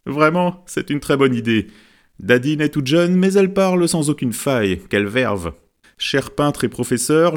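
lightly voiced chuckling praise; amused friend. A narrator's reading. Friend laughing at the clever girl, mild amusement. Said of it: "Ami Bois se prit à rigoler".

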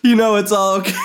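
words breaking into laughter; laughing while talking. Real, not acted. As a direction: try to finish through a laugh. Breaking up laughing at own bit.

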